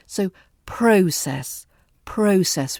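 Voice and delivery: "process" stretched slowly with a long O; slow clear process. Shown as a demonstration. Teacher models for learners, slowly drawn-out O in "process". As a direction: draw out the O in "process". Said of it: "We've got that O sound".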